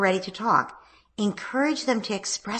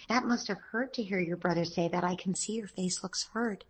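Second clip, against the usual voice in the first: tender comforting. Shown as a demonstration. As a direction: hold her close and soothe her. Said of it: "taking her into my arms and say".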